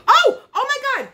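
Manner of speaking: high, startled exclamation; real shock. Real, not acted. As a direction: burst out high as if caught off guard. Sudden discovery in the box.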